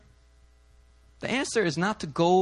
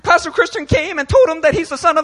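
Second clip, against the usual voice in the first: mock congregant dismay; 9 semitones higher, 6 dB louder than usual. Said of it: "jack up their lives".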